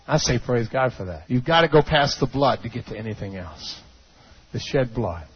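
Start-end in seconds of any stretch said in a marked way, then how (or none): none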